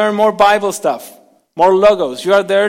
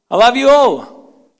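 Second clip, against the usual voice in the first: slow, higher, louder I love you all; general declaration; 5 semitones higher, 5 dB louder, slower than usual. Shown as a demonstration. Preacher proclaiming love to the whole congregation, slow and loud. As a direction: proclaim it to everybody at once. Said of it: "I said it in a general way".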